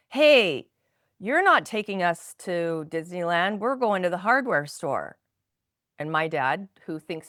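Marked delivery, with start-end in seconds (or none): 0.1-5.2 re-enacted child's protest, loud opening "Hey"; speaking up. Oldest child calls out Dad's Disneyland story, speaking up. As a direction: call Dad out as the kid finally using her voice. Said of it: "I'm gonna speak up".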